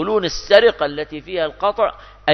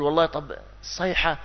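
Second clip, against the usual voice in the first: mock pity; 5 semitones higher than usual. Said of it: "قل".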